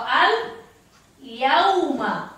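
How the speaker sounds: "al yauma" in two parts, l then a distinct ya; clear ya. Shown as a demonstration. Teacher giving the example, separated "al yauma". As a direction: pause after "al", then a clear drawn "yauma". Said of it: "Huruf ianya".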